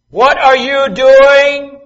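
high, loud, drawn-out mom call; a mother catching her kid from across the house; stretched, sing-song parental yell. Retold or imitated. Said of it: "voice of your parent when you were a kid".

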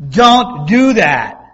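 loud, slow, drawn-out warning; mom's stern drawn-out no. Retold or imitated. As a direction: scold a child the way Mom did. Repeats it louder, drawn out.

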